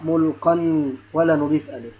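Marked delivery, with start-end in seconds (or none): 0.0-0.6 "ملقا" ending in -qan; "ملقا" pronounced mulqan with a held final n; tanween fath. Shown as a demonstration. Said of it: "نضع الفتحتين على القاء".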